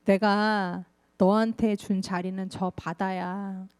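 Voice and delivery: lightly voiced God, calm and patient; God's voice. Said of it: "하나님 말씀이 들려와요".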